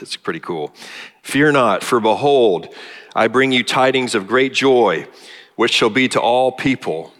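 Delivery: a touch of Linus reciting Luke, building to the angel; heartfelt reading of the angel's news; scripture recitation. Retold or imitated. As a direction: recite the shepherds passage with rising conviction.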